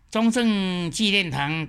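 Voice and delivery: 中正纪念堂 said slowly, syllable by syllable; slow careful example. Shown as a demonstration. Teacher quoting an exam question slowly. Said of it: "台湾话要怎样讲".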